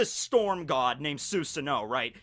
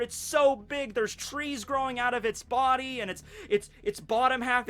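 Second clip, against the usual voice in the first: higher, lightly voiced worried parent; distressed parent; 5 semitones higher than usual. Crying parents telling Susanoo of the snake, higher worried voice. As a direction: plead the tale, a touch frantic.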